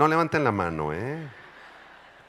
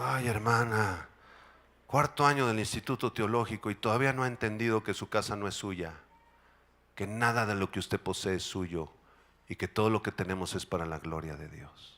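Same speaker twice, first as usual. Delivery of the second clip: gentle reproof; 3 semitones lower, 4 dB quieter than usual. Retold or imitated.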